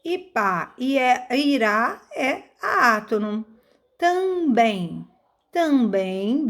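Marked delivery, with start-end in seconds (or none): 4.0-5.1 "Também" drawn out, final "bem" stressed. Shown as a demonstration. Teacher presenting an example, "Também" with stressed BEM. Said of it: "bem, é a sílaba forte". 5.5-6.5 "Também" with a long, rising "bem"; stress on BEM. Shown as a demonstration. Teacher pointing out the tonic syllable, "Também" with held BEM. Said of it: "bem, é a sílaba forte".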